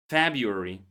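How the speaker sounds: February said feb-yoo-ary; February without first r. Shown as a demonstration. Teacher models common pronunciation for learners. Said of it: "the first R is silent here".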